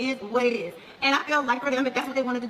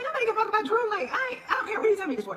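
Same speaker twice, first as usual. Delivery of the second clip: retold dismissive retort; 9 semitones higher than usual. Retells own dismissive retort.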